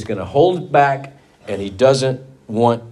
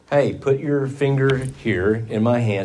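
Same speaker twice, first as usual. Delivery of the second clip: gentle invitation; 4 dB quieter than usual. Retold or imitated. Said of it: "he said".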